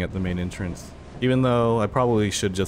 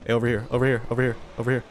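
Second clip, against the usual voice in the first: calling from far away; 3 semitones higher, 3 dB louder, much faster than usual. Real, not acted. Calling a dog in game.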